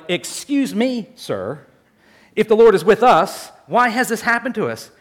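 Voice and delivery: a touch of exasperated protest, not polite; indignant challenge. Retold or imitated. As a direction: push back at the angel, half-offended. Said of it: "more like".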